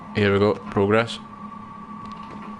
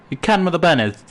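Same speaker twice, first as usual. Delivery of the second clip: higher-pitched East Coast Scots mimicry; East Coast Scottish accent; 6 semitones higher than usual. Streamer repeating a mocked local question, hammed-up East Coast Scottish. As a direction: exaggerate the grating East Coast Scottish lilt. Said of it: "it's, like, East Coastish".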